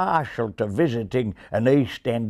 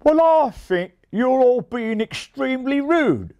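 much higher, louder scold; 14 semitones higher, 5 dB louder than usual. A narrator's reading. Reese scolding the rude ravens, high sharp scold. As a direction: tell them off sharply. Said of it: "scolded Reese".

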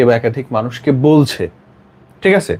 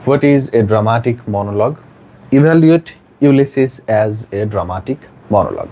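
slow question reading; 2 semitones lower, much slower than usual. Shown as a demonstration. Teacher reads out exam question.

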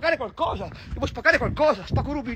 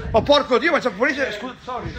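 usual speaking voice

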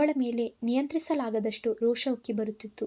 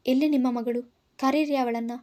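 louder, demanding shout; angry yell; 4 dB louder than usual. Acted. Nephew grabbing the aunt's shoulder demanding her daughter, loud angry yell. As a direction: bark the demand at the aunt, louder. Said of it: "ಅವರ ಭುಜ ಹಿಡಿದು ಕಿರುಚಿದೆ".

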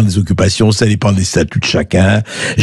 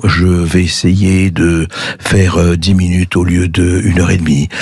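over enunciating; 3 semitones lower than usual. Shown as a demonstration. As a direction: drag out each syllable deliberately. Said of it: "Je vais parler très lentement".

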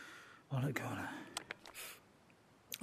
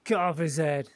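loud, cold royal command; loud cruel order; 3 semitones higher, 8 dB louder than usual. Acted. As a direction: bark the order to behead. Voicing Joffrey's command.

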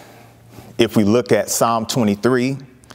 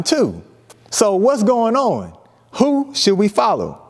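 raised, questioning disciples' voice; lightly voiced puzzled followers, higher; voicing the disciples; 4 semitones higher than usual. Disciples asking John about Jesus, puzzled and higher.

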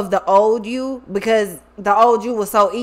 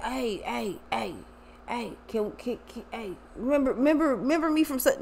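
mock pleading old acquaintance; 10 dB quieter than usual. Old fake friend begging for recognition.

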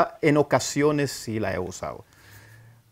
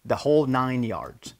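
slow repeated idiom; slower than usual. Shown as a demonstration. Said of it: "la otra manera es".

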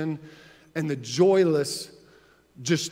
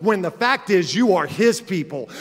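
ordinary delivery

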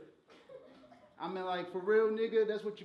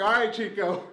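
mock dismissive; 10 dB louder than usual. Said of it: "I was like".

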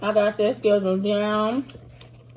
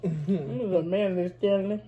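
laughing; 5 dB quieter than usual. Real, not acted. Laughing till crying.

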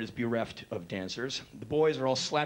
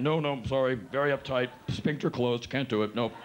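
stern Republican. Retold or imitated. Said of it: "most stern Republican face".

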